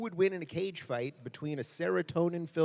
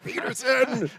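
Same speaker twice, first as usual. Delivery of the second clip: high, loud mock-scolding name call; playful call-out; 10 semitones higher, 8 dB louder than usual. Real, not acted. Host calling out the guest for dodging the island question, playful. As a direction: call his name out in laughing protest.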